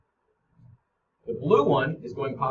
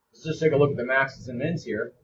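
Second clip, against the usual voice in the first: talking while chewing an apple; words round a bite of apple; mouth full. Real, not acted. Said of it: "sorry, I'm eating an apple".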